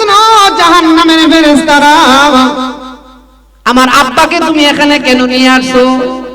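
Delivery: loud, drawn-out call to the angels; daughter calling out. Acted. Daughter calls the angels to save her father, loud pleading call. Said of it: "মেয়েটা ডাক দিয়ে বলতেছে".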